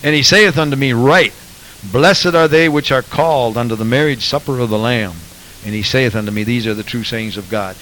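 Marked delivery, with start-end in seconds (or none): 0.0-5.2 loud, overdone mock scripture reading; pompous mock reading of the verse; mock emphatic reading. Shown as a demonstration. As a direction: ham up the verse to make a point. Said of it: "I don't mean to make fun".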